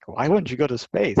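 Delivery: lightly acted mother's disbelief; retold shocked mom. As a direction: imitate a mom taken aback at her daughter. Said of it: "like, shocked".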